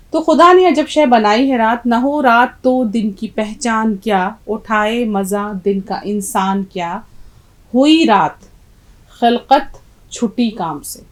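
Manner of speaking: slow, measured verse reading, strong opening; poem recitation. Acted. Teacher reading the poem to students, slow measured recitation. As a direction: recite the couplet slowly, stretching the words.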